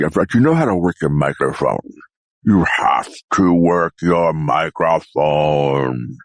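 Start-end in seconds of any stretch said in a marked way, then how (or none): 2.4-6.2 deep close-mic voice. Shown as a demonstration. Close-mic voice demo after the dragon.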